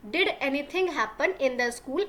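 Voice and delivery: very slow, word by word for learners; slow classroom dictation reading; slow read-aloud. Shown as a demonstration. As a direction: spell the sentence out slowly for the class. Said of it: "teacher rereads the question".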